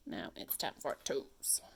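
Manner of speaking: whispered, slow and soft. Shown as a demonstration. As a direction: breathe the line out in a whisper.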